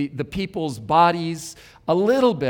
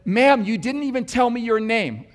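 higher-pitched retold call after someone; 6 semitones higher than usual. Preacher to woman as she was leaving, mildly calling out. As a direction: call after her without really shouting. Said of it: "I just called out to her".

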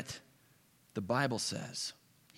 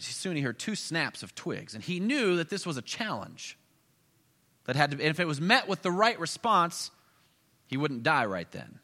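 ordinary delivery

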